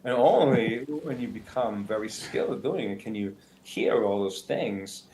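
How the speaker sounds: slow, drawn-out Walken-style phrasing; Christopher Walken impression. Shown as a demonstration. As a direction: lean into a halting Walken cadence. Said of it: "somebody who could just talk like this".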